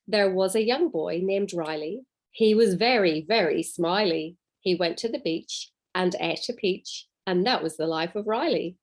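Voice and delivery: bouncy read-aloud limerick; lightly rhythmic poem reading. Acted. Reads a limerick.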